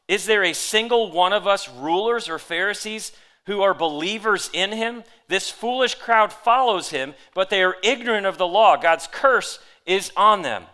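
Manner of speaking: loud, high-pitched scornful harangue; mocking. A narrator's reading. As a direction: preach the rulers' scorn at full force. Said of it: "the Pharisees mocked".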